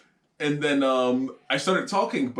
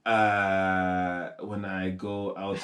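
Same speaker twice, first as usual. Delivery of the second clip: hesitant put-on French accent, slowing down; mock French accent; 5 semitones lower, much slower than usual. Showing co-host disdain for French, mock French accent. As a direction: fumble along in a pretend French accent.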